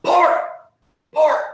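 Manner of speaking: loud hushed call; whisper yelling. Acted. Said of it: "kind of whisper yells".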